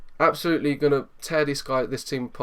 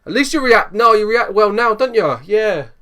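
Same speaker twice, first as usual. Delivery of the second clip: sarcastic; 7 semitones higher, 7 dB louder than usual. Real, not acted. Mocking team talk reaction.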